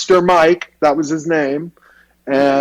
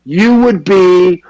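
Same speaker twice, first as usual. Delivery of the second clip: Harvey Fierstein; 5 semitones higher than usual. Retold or imitated. Head of the school brushing off acting, high and dismissive. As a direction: wave away acting. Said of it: "he sounded like Harvey Fierstein".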